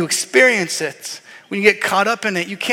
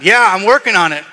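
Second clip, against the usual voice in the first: louder, exasperated reply; irritated dad; 7 dB louder than usual. Retold or imitated. Dad answering his kid again, louder and exasperated. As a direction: snap back, losing patience. Repeated interruptions by kids.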